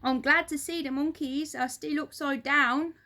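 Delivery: lightly voiced gloating husband; gloating Mister Twit. A narrator's reading. Mister Twit gloating at the monkeys, lightly voiced smug tone. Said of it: "said Mister Twit".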